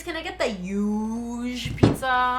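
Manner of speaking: slow, drawn-out imitation of a friend; lightly voiced friend impression; imitating BK ordering. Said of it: "That is accurate, Luis".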